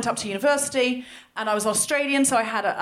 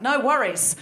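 Australian accent; slower than usual. Shown as a demonstration. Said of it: "I get more Australian even when I talk about it".

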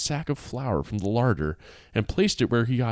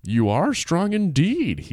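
amazed ogre; 6 semitones higher, slower than usual. Acted. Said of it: "The ogre was amazed".

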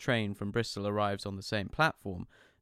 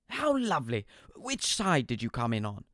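doting dad answering the phone; cheery dad; 2 semitones higher than usual. Retold or imitated.

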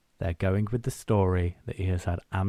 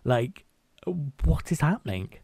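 fast, higher, louder mock outrage; frantic outburst; 6 semitones higher, 5 dB louder than usual. Truman finally breaking down, retold frantic outburst. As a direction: blurt it out as he snaps. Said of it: "he fully breaks and he goes".

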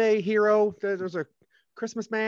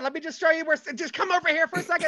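elf voice; 6 semitones higher, 4 dB louder, faster than usual. Acted. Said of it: "I'm an elf".

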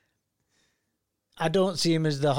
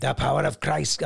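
Swedish accent attempt. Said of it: "one step away from Welsh".

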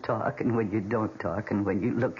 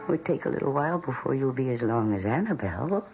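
cooing to a plant; 3 semitones lower than usual. Acted. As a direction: coo over her like a proud mother. Cooing softly to a houseplant.

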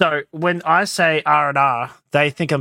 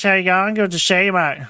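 broad rural Australian twang; country Aussie accent; 3 semitones higher than usual. Retold or imitated. Imitating people half an hour out, country Aussie accent. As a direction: put on a country Australian greeting. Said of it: "people talking like that".

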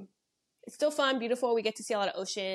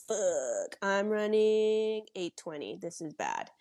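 retold panic; 4 dB louder, slower than usual. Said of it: "and I'm like".

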